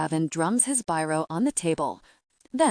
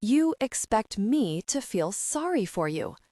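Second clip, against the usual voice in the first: sarcastic; 2 semitones higher than usual. Acted. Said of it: "His voice glints with sarcasm".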